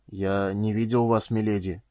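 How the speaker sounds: slow, husky, halting apology; embarrassed hoarse murmur. A narrator's reading. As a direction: speak hoarsely and haltingly, taking it slowly. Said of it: "хрипло проговорил он".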